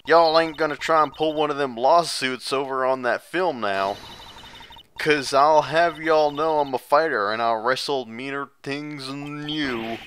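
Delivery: scolding southern country woman; southern accent. Acted. Same southern voice.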